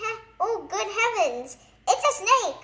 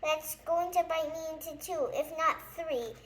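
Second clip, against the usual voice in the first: high, loud hysterical wailing fading out; panic; 4 semitones higher, 8 dB louder than usual. A narrator's reading. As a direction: wail about the lion, fading at the end. Mister Jelly fears the lion.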